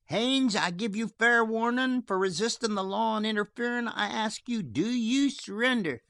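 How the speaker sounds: high, strained call of a warning; shrill calling warning. A narrator's reading. Sheriff warning Haines from afar, high shrill call. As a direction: pitch it high to carry.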